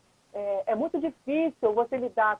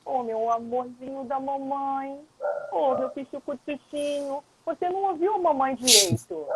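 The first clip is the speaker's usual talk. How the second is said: soft and sweet. Shown as a demonstration. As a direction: coax the child gently like a doting mom. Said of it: "posso falar mansinha".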